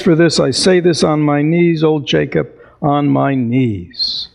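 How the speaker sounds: a hint of Scrooge swearing to change; Scrooge's vow. Scrooge's joyful vow, quoted.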